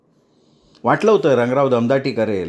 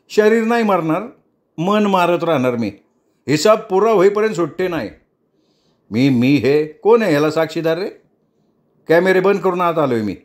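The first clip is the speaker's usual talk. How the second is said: a higher, lightly voiced threatening young man; Jatin's threat; 5 semitones higher than usual. Jatin warning the leader, a light threatening tone. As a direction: warn him coolly, as a threat.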